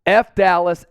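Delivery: F Dallas hit hard and loud; emphatic F Dallas. Shown as a demonstration. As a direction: shout F Dallas like a rally cry. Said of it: "Just type in F Dallas".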